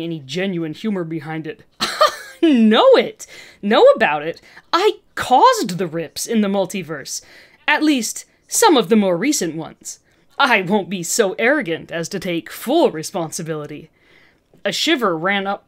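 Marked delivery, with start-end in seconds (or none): 1.8-2.4 short joyless laugh; a laugh with no humor behind it; humourless breathy laugh. Acted. Villain woman laughing at the heroes, a hollow laugh. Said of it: "The woman laughed again". 2.4-13.9 loud, manic boast; proud of the damage she caused; crazed boast. Acted. Scientist woman bragging to the heroes, manic and loud. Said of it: "She was almost a little crazed".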